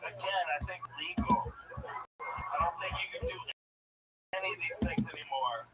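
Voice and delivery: hushed aside; whispering. Real, not acted. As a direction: whisper it like a secret. Whispered aside about legality.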